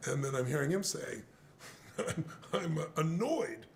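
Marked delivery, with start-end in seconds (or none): 2.0-3.7 mild, hesitant admission of annoyance; understated annoyance. Retold or imitated. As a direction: imitate someone barely bothered. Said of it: "radically different emotional responses".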